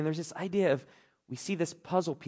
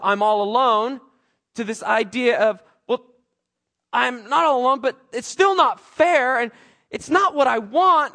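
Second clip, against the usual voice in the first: inner complaint; 9 semitones higher, 9 dB louder than usual. Retold or imitated. Voicing his own inner complaints.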